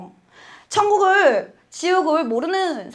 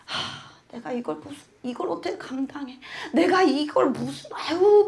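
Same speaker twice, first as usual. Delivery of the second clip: despairing sighs; 5 dB quieter than usual. Retold or imitated. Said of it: "저 자신을 자꾸 이렇게 깎아".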